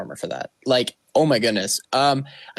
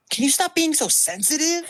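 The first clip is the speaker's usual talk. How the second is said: laughing quote. Retold or imitated. Quoting funny line, laughing.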